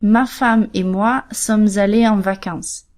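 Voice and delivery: slow, careful quote of a learner's error; slow learner's mistake. Shown as a demonstration. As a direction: spell out the typical mistake slowly. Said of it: "First mistake".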